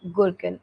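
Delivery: "gherkin" said GUR-kin, with the r; own preferred pronunciation. Shown as a demonstration. Teacher telling students how they say the gene name, GUR-kin pronunciation. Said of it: "I pronounce it like".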